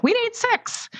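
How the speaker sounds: very high-pitched mock demand; imitated director demand.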